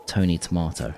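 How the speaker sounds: Tony Tomato in a New York accent, Tomato as "tuh-MAR-toh". Shown as a demonstration. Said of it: "in, like, a New York accent".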